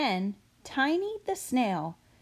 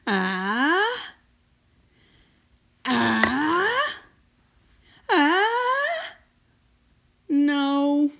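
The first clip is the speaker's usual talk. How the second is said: rising, higher and louder gasps before a sneeze; sneeze build-up; 6 semitones higher, 6 dB louder, much slower than usual. Acted. Chew trying to sneeze for the worried grown-ups, building gasps. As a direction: build toward a sneeze, then give up.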